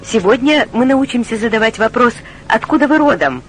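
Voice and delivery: ordinary talk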